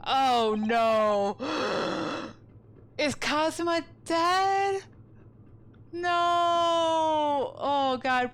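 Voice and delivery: half-hammed dread; mock panic. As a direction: act the sudden dread. Fears friend is dead.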